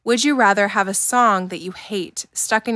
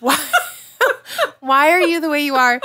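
louder, higher self-scolding; exasperated; 6 semitones higher, 5 dB louder than usual. Retold or imitated. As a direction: ask yourself in exasperation. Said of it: "being like".

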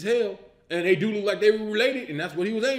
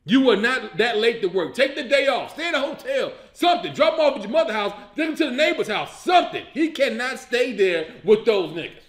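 exasperated rant. Real, not acted. Ranting at the movie character.

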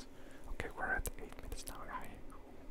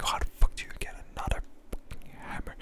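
loud exasperated whisper; whisper-yell it in disbelief; retold outburst; 8 dB louder than usual. Asking the hammer man about his hammers, a whispered mock yell. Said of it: "I'm like".

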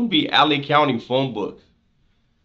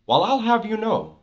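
higher, mock-proper convict line; convict phrase; 8 semitones higher than usual. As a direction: say it like a con puffing himself up. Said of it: "he'll even say the word, the phrase".

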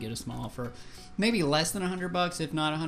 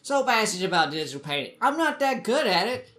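excited; 5 semitones higher, 4 dB louder, faster than usual. Acted. Self-mocking burst about his skill.

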